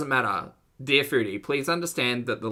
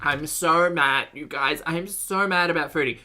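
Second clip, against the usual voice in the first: mock outrage; 5 semitones higher, 4 dB louder than usual. Mocking the angry haters.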